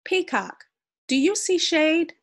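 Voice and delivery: high loud call. Acted. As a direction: shout up to Peacock. Sun calls from high above.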